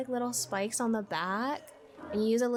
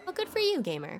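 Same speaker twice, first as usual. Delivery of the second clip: sarcastic; 6 semitones higher than usual. Real, not acted. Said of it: "teasing the gamer".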